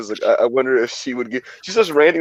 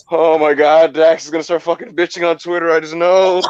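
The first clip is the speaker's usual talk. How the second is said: lightly higher, louder mock rant; imitating fan lady; 5 semitones higher, 4 dB louder than usual. Retelling a fan's rant at the match, mild mock whine. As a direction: play the lady griping mid-match. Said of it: "she randomly goes".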